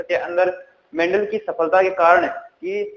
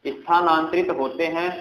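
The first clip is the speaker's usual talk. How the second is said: slow dictation; 4 dB quieter than usual. Shown as a demonstration. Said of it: "क्या बोला मैंने".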